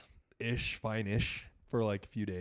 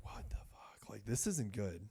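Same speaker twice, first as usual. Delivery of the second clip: hushed, breathless dread on "this isn't good"; panicked whisper; 9 dB quieter than usual. Retold or imitated. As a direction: whisper it, scared and unvoiced. Panicking alone on dark road.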